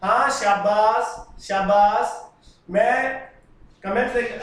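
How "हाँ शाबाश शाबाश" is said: drawn-out, emphatic well done; hearty praise. Real, not acted. Teacher cheering on a student who answered, hearty praise. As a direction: stretch out the praise proudly.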